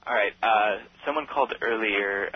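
speaking up into the phone. Real, not acted. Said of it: "Oh, now you're cooking".

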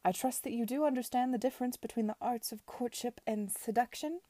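a lightly voiced imperious aunt, measured; Lady Denham lecturing Edward, haughty; stern aunt. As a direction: lay down the law to her nephew.

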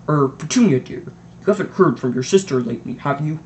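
hesitant, throat-clearing question; nervous. Acted. Husband nervously asking his wife about her sister. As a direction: tiptoe into a touchy subject. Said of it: "He cleared his throat nervously".

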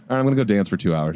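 quick, low casual aside; offhand sign-off. Retold or imitated. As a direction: toss it off briskly. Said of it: "And then be like".

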